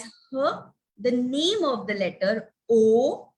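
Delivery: "h" as a breath sound, then a long "O". Shown as a demonstration. Teacher reading a magic E word, sounded out. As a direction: separate "h", then stretch "O" as oh. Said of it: "I will read this word as".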